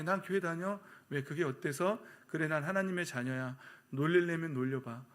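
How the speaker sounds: mildly defiant retort; confident. Acted. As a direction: answer boldly, standing your ground. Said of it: "당당하게". (당당하게 맞받아치는 말투)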